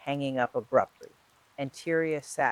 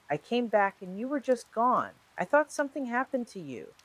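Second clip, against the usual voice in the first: hurt and panicked; 10 semitones higher than usual. A narrator's reading. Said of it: "there was hurt beneath the panic".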